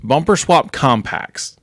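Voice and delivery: put-on slow and overly deliberate, as if to a child; mock dumbed-down explaining. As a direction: spell it out slowly, mockingly. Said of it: "You're dumbing it down".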